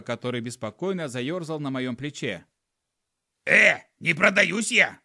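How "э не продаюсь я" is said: loud, slow, high skunk protest; offended skunk voice; skunk shouting. Acted. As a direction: yell it indignantly. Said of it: "закричал скунс".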